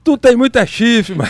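stifled giggles. Real, not acted. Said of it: "não consigo parar de rir".

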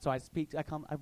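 ordinary talk, nothing marked

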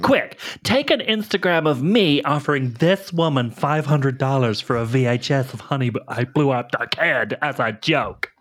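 put-on snarky Valley Girl teen chatter; Valley Girl mocking everything; Valley Girl accent. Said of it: "impossible to say in that accent".

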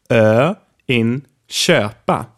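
köpa with a long closed rounded ö; long closed Swedish ö. Shown as a demonstration. Swedish teacher modeling köpa for learners, slow clear vowel. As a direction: stretch the ö in köpa, lips rounded tight. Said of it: "Say after me".

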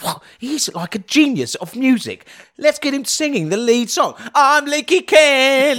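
a creepy falsetto character crooning; Leaky Ken voice. Pretend. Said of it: "they'll hear it and go".

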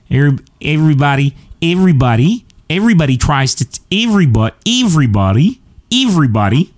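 testing an Aussie pronunciation; groping for the Australian accent, word by word; tentative fake Aussie. Shown as a demonstration. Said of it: "trying to reclaim my Australian accent".

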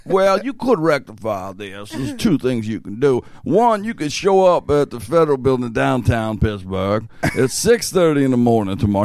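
lightly voiced old official; a hint of an old man giving instructions; old guy voice. Fake IRS agent giving directions, lightly voiced old guy. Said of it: "He does this old guy voice".

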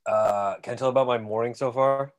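talking through a swollen face; words a bit thick from swelling. Real, not acted. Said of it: "the right side of my face is swollen".

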